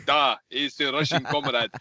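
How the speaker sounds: hammed-up, terrible Russian accent; mock a film star's awful Russian accent; Cate Blanchett's bad Russian accent. Host mocking terrible movie accents, bad Russian accent. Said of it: "Cate Blanchett talking like this".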